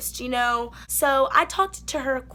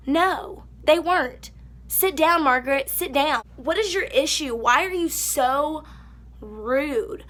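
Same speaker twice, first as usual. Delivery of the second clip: angry telling-off; 3 semitones higher, slower than usual. Acted. Telling off Margaret directly.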